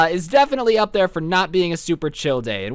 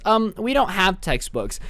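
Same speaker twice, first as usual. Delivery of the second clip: student snitch; slower than usual. Retold or imitated. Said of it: "Abigail was a whole snitch".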